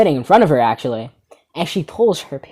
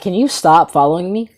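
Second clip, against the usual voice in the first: exasperated, normal-volume complaint; irritated plea at talking level; annoyed request. Retold or imitated. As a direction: ask it openly, fed up. First request to the follower.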